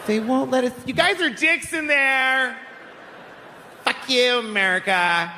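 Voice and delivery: a hammed-up Mexican accent, pleading. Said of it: "offensive stereotype of a Mexican".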